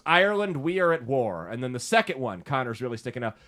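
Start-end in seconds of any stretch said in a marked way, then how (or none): 0.0-1.5 reading a tweet aloud. Retold or imitated. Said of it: "he goes".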